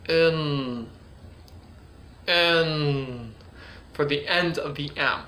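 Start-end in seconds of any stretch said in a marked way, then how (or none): 0.1-3.3 long-held "in"; letter sound demo. Shown as a demonstration. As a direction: hold the n in "in" with the tongue. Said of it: "I can put my tongue".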